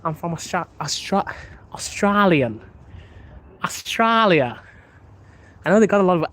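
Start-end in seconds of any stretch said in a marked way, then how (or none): 0.0-4.6 halting practice of an Australian accent. Shown as a demonstration. Streamer practising for viewers, tentative Australian accent. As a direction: feel out the Aussie vowels, breaking off and retrying. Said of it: "how do you do an Australian accent".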